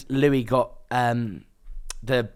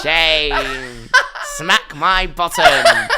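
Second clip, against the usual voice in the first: Sharon impression; 2 semitones higher, 5 dB louder, much slower than usual. Guest showing the host Sharon's loud chant, laughing. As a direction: squeal it like the cheeky housemate. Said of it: "such a good impression".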